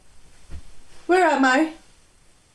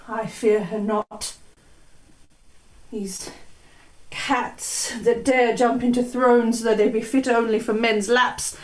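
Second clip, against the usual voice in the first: a hint of a sleepwalking queen. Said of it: "speak in a strange voice".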